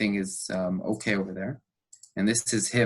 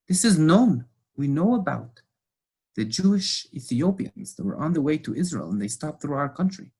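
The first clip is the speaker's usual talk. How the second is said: indignant, still raised; angry lecture; 6 semitones higher than usual. Retold or imitated. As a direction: hammer the point home. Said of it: "the pastor gets really angry".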